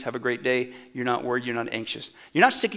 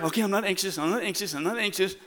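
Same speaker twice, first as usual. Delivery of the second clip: softer repeated mock mantra; mock self-talk; 6 dB quieter than usual. Preacher mocks a believer repeating it to themselves, softly. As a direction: mutter it to yourself.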